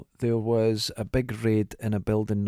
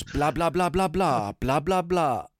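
garbled alien babble, a bit higher; 4 semitones higher, slower than usual. Retold or imitated. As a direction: babble nonsense like a badly dubbed alien. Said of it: "but the alien goes".

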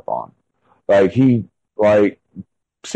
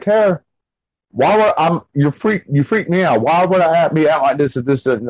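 much higher, urgent, disbelieving; freaked-out pleading; 7 semitones higher than usual. Retold or imitated. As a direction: make her see you're shaken. Husband pleading with wife.

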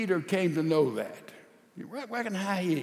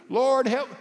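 desperate prayer; 6 semitones higher, 7 dB louder than usual. Acted. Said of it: "He couldn't get through".

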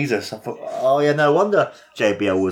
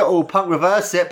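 excited; 6 semitones higher than usual. Real, not acted. Repeated call building excitement.

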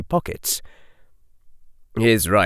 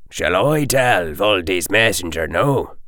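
gentle; 2 semitones lower than usual. Acted. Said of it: "now strangely gentle".

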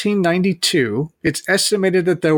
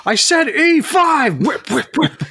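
cruel overseer; 11 semitones higher, slower than usual. Pretend. Slave master ordering on chessboard.

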